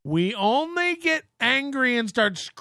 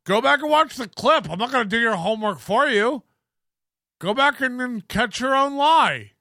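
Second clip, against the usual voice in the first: mock-indignant, higher-pitched retort; Corey; 4 semitones higher than usual. Host refusing to explain the lie, mock angry. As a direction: imitate a host getting worked up at his guest. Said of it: "It's authentic anger".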